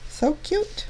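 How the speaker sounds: high, gushing little coo of delight. Real, not acted. Crafter admires her finished card, high gushing coo. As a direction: squeal it like you're admiring something adorable.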